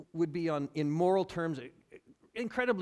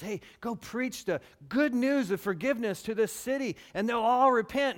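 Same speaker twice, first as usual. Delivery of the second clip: louder call from God; 7 semitones higher, 7 dB louder than usual. Retold or imitated. Voicing God calling Jonah.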